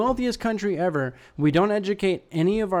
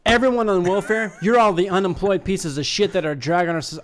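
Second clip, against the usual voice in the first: mock angry pundit; 3 dB louder than usual. Mocking right-wing rant voice.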